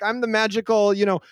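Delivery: lightly voiced over-eager clerk; fake friendly courier. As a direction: sell it like a cheesy helper. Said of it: "but they're like".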